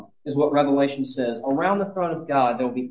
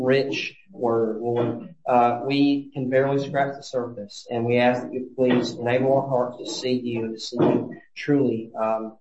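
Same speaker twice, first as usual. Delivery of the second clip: closing prayer; 3 semitones lower than usual. Acted.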